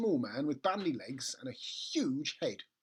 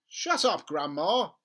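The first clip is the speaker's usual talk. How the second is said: louder, annoyed brush-off; father brushing off grandma; irritated; 3 semitones higher, 8 dB louder, slower than usual. Acted. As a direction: snap back at grandma.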